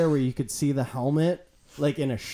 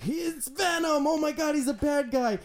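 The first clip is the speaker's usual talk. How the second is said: mock dramatic hype; 11 semitones higher, 4 dB quieter than usual. Fan mocking the movie's build-up, mock-alarmed. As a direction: hype the villain in a silly high voice.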